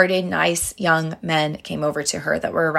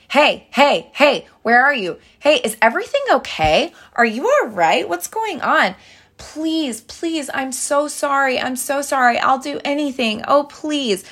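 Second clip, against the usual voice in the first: put-on higher, frantic begging girlfriend; mock desperate pleading; 7 semitones higher than usual. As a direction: plead with him like you're losing him. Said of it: "do not beg".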